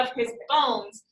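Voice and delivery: of his BONES, falling on the last word; stress on BONES. Shown as a demonstration. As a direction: run lightly up to a weighted bones. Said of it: "you can kind of feel it".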